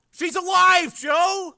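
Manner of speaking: high, loud joyful shout; relieved yell. A narrator's reading. Frank telling his brother, relieved yell. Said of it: "he yelled out in relief".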